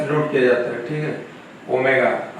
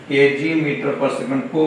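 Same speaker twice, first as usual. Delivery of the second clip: slow dictation; much slower than usual. Shown as a demonstration. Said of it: "teacher dictating unit".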